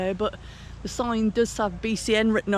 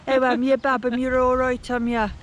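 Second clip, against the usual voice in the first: a light mock Black Country accent, slightly raised; 3 semitones higher, 3 dB louder than usual. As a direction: playfully imitate a broad Black Country accent, Bab and all. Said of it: "That's pretty good".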